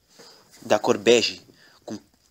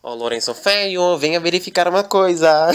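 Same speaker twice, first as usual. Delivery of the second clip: higher, sing-song call with a laugh; 6 semitones higher than usual. Acted. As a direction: call him over, giggling. Daniela calls Lorenzo Velho.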